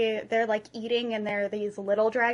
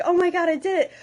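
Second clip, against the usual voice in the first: mock triumphant cry, higher and louder; excited; 6 semitones higher, 4 dB louder, faster than usual. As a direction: celebrate the hit. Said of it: "and I'm like".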